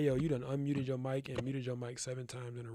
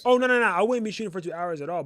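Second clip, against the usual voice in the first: much louder and higher, quick denial; loud protest; 7 semitones higher, 15 dB louder than usual. Real, not acted. Teacher loudly denying to a student that he would shoot two hours. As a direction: shout down the idea at once. Objects to the suggestion.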